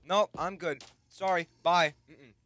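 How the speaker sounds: high, loud string of alarmed refusals; comic panic. Real, not acted. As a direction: back away babbling loud, high polite refusals. Flees a pit of monsters.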